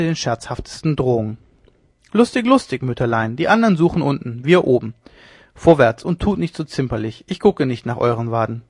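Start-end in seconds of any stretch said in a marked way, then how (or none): 2.1-8.6 jeering tease. Acted. Leone teasing the old woman up the stairs, jeering. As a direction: taunt the old woman playfully.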